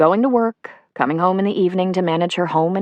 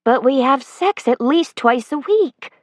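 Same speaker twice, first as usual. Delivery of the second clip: cling to him with questions; wife begging him to stay; pleading Sonia; 7 semitones higher than usual. A narrator's reading. Sonia protesting.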